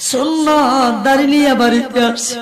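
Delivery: half-sung preaching with long drawn-out phrase endings; intoned religious narration; melodic sermon storytelling. A narrator's reading. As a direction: chant the story to a congregation, stretching key words.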